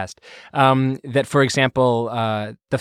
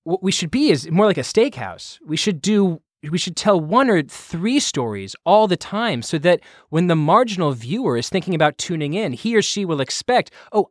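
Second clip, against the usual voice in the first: higher, earnest TV executive voice; Skipper voice; 4 semitones higher than usual. Retold or imitated. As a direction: pitch up into the sports boss explaining. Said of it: "I'll do Skipper voice".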